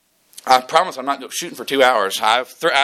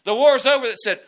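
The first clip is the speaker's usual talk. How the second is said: raised, high preacher's voice driving the point home; full-force preaching; 9 semitones higher than usual. Acted. Pastor preaching hard to his congregation about victory, full force.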